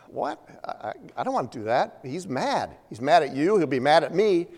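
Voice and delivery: a jumpy, fast, frightened stammer that jumps high on what; panicked protest. Retold or imitated. Obadiah panics at Elijah's request, a fast frightened stammer. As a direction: stammer out the refusal in a hurry, scared. Obadiah afraid to face Ahab.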